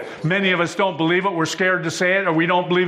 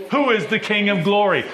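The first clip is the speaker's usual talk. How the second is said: excited; 4 semitones higher than usual. Acted. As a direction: call the question out with rising fervour.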